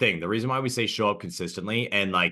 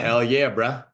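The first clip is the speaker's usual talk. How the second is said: loud, high cheer; overjoyed; 5 semitones higher, 5 dB louder, slower than usual. Real, not acted. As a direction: cheer him on, thrilled. Cheering a student's progress.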